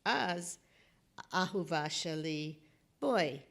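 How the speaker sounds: Hebrew poem recital in short phrases; poetry reading. Acted. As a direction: recite line by line, leaving pauses.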